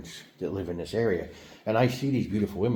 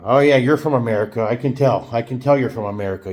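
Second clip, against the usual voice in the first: louder mock teasing voice; teasing locals; 7 dB louder than usual. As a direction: tease him for being obviously American. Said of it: "people look at me and go".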